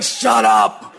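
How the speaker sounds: comic urgent shut-up; mock hushing. Pastor silencing old friend before family, mock urgent. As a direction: cut the old friend off, in jest.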